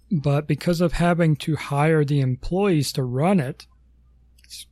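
talking through hiccups; speech broken by a hiccup. Real, not acted. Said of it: "got the hiccups".

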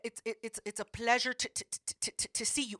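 stuttering. Retold or imitated. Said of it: "he stutter".

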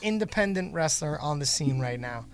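sarcastic interview question; mock-earnest question to a guest. Real, not acted. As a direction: ask it with a sarcastic take on "favorite". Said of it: "I'm being completely sarcastic when I say".

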